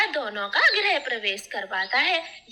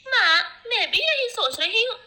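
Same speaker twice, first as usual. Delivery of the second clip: higher, louder tearful call; emotional cry; 7 semitones higher, 5 dB louder than usual. Acted. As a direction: burst out to her mother. Daughter cries out to mother.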